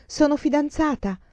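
high-pitched happy announcement; annuncio. A narrator's reading. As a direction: announce it proudly, voice lifted well up. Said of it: "tornò a casa e annunciò". (annuncio squillante, a voce alta)

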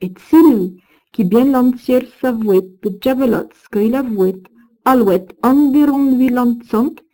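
measured recital of medieval verse; Old French verse reading. Acted. Lecturer reciting Old French verse to students, measured. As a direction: read the old verse with care, line by line.

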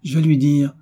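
plus haut et plus fort, l'élan qui monte; s'emporter de joie à l'idée de surprendre; de plus en plus animé. Acted. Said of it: "s'animant de plus en plus". (Philippe au prêtre, veut surprendre son père, enthousiasme croissant)

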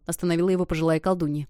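plain reading voice

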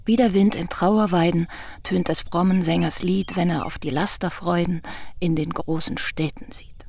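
verse recital sinking to a whisper; recited verse. Acted. Young visitor recites Busch's verse to him, fading to a whisper.

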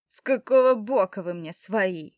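loud hostile challenge; shaking with anger. Acted. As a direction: spit the question out angrily. Hostile stranger spits, challenges.

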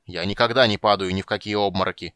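indignant. Acted. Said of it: "возмущённо повторил гном".

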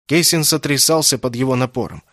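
plain reading voice

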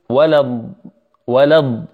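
ولد with the ضاد held; slow demo. Shown as a demonstration. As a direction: say ولد as the teacher models it. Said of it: "اسمع الأولى".

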